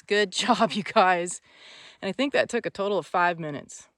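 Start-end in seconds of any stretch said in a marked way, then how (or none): 0.0-1.4 laughing praise. Real, not acted. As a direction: praise with a laugh breaking through. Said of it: "the ultimate release".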